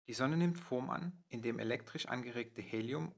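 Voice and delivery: measured, articulate prose reading; read-aloud narration. Acted. Narrator presenting the plasma sun to video viewers, read-aloud narration. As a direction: read it out as prepared narration, phrase by phrase. Reads a prepared text aloud.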